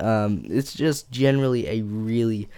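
hoarse, croaky flu voice. Real, not acted. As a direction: talk through a sore, croaky throat. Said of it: "my voice is a bit croaky".

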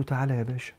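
soft, innocent "تعالى يا باشا" with no mockery; sincere invitation. Preacher shows the innocent version of calling someone باشا, soft and sincere. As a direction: say it gently, meaning only respect. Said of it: "والله العظيم بقول له".

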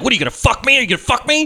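mock demanding lover. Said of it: "'Cause she's like".

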